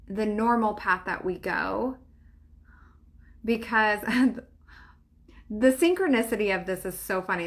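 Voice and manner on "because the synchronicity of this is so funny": laughing. Real, not acted. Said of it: "That's why I'm laughing".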